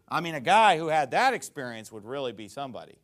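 mock-impressed with a rebuking edge; lightly acted sarcastic rebuke. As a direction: lean sarcastically on the key words. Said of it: "more sarcasm rebuking them".

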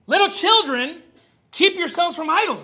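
high, loud recitation; ringing Bible quote to the church; proclaiming scripture. Acted. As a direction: proclaim it to the flock. Quoting the Bible with force.

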